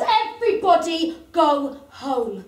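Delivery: slow, measured order to the crowd; calm, slow command; firm bouncer. Acted. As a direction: lay down the law slowly.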